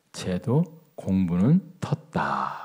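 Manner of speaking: slow, drawn-out grandfatherly pronouncement; grandfather's verdict. Retold or imitated. Grandfather judges his playing grandson, slow resigned verdict. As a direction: imitate a grandfather giving up on the child. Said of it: "할아버지가 그러시더라고요".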